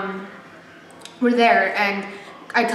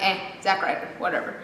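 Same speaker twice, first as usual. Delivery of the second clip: unimpressed; 3 semitones lower, 7 dB quieter than usual. Retold or imitated. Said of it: "I've had really bad experiences".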